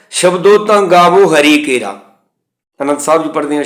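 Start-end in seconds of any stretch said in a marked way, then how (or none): 0.1-2.0 ਤਾਂ said as nasal taan, slow and careful; correct recitation. Shown as a demonstration. Teacher showing students the right reading, nasal ਤਾਂ. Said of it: "ਇਸ ਤਰ੍ਹਾਂ".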